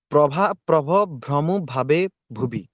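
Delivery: measured recitation stressing each ଭ; pronunciation demo. Shown as a demonstration. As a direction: sound out each bh in ଭ୍ରମୁ ଭାବେ ଭୁବି word by word. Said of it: "ତମେ ଉଚ୍ଚାରଣ ନିଜେ କର". (ପ୍ରତି ଶବ୍ଦର ଉଚ୍ଚାରଣ ସ୍ପଷ୍ଟ କରି)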